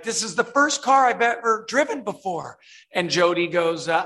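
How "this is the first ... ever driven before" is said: higher-pitched, lightly imitated movie line; Ryan. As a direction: deliver the joke line with raised pitch. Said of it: "Ryan's like".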